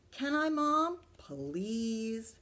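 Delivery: put-on high, loud begging child; pleading boy. Arthur begging Mom for the game, high pleading. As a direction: beg Mom like a kid.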